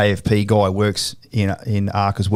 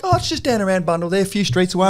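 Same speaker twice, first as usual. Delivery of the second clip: imitating the client; 9 semitones higher than usual. Imitating client's casual reply.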